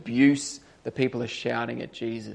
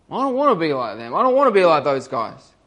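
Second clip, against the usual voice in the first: growing resolve; faster than usual. Retold or imitated. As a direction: say it again, pushing harder each time. Thief repeats it with growing force.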